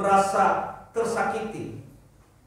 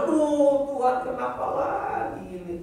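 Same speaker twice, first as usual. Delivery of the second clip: whiny complaining believer. Retold or imitated.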